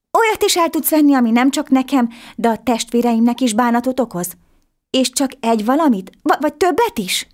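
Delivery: put-on high, bright-eyed boy amazed at a talking fish; little boy voice. A narrator's reading. Little boy marvelling at the talking fish, high and eager. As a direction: pitch it way up like an excited small boy.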